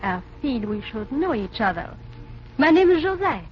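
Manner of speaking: put-on a light French accent, flirty dancer. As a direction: coquettish French dancer introducing herself.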